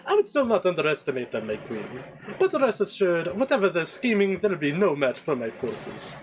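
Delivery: assured, deferential servant with swooping pitch; Jarvis. Acted. Servant assuring his queen of his forces, confident.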